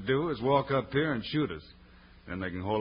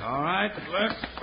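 heave ho pulling; 6 semitones higher than usual. Acted. Swinging beef as battering ram.

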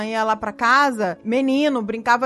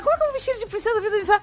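dismay; 8 semitones higher, 4 dB quieter, much faster than usual. Retold or imitated. Mother retells her dismay.

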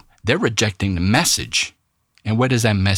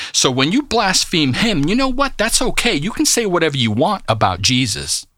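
speaking as Jesus; 6 semitones higher than usual. Acted. Voicing Jesus addressing blasphemers.

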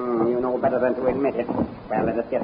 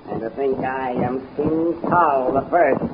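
gloating would-be king; 3 semitones higher, slower than usual. Acted. Tal proclaims himself king to the guard, slow and gloating. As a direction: savor the title.

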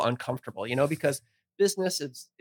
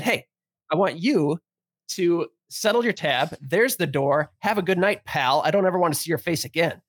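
firm, pretend-angry dismissal; mock anger; 3 semitones higher than usual. Bartender orders customer to settle his tab, mock anger. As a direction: act out throwing a customer out. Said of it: "thinking that I was really pissed".

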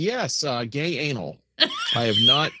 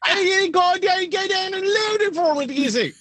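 high-pitched put-on British voice, shouting; mock British girl. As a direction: squeal it like a shrill caricature of the phone girl. Imitating British phone girl.

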